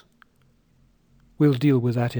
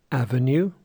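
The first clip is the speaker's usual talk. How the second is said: Avenue said as AVenue, stress on the first syllable. Shown as a demonstration. Teacher models stress on the first syllable. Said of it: "stress in the first syllable".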